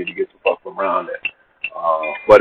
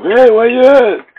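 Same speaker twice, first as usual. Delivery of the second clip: drawn-out, raised call across the yard; 6 dB louder, slower than usual. Retold or imitated. Kingfish yells across the lot to find him, slow and raised.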